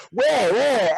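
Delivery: excited. Retold or imitated. Imitating Michael rushing in, high excited panic. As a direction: squeak it out in a rush. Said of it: "he's like".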